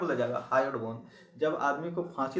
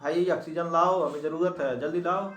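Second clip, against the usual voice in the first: mock shout; 4 dB louder than usual. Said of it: "mitochondria चिल्लाती है".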